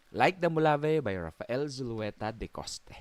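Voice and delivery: big announcer read of the title. Shown as a demonstration. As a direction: announce it like a show host. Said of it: "medyo announcer voice".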